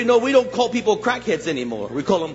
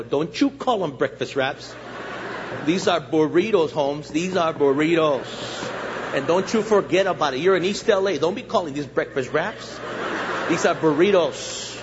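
mock scolding. Mock scolding of the store clerk.

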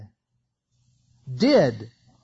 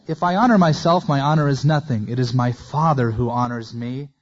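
emphatic declaration; 3 semitones lower, 6 dB louder than usual. Acted. Jesus answering the accusers.

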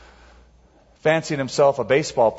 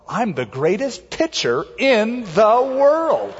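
smiling; 8 semitones higher, slower than usual. Retold or imitated. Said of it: "he got a big smile on his face".

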